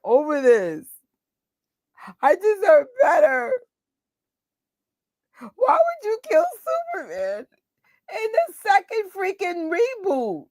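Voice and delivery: high, hammed-up wail of grief; fake-cry it like a wrecked fan; mock sobbing. Mock sobbing over Superman's death.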